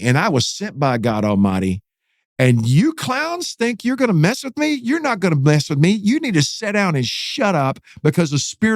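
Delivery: emphatic rebuke, pitch jumping up on the challenge; retold preacher's yell. Pastor rebukes prisoners about to attack, retold defiant yell. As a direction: imitate a defiant pastor without full volume. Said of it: "he starts yelling".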